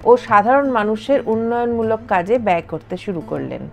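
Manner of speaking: calm storytelling voiceover over music; documentary narration. A narrator's reading. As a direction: narrate the history evenly. (তথ্যচিত্রের ধারাভাষ্য)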